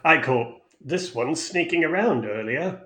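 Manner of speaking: put-on Thako's accent. Smug servant accent reporting the sneaking guest. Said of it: "saying that in that accent".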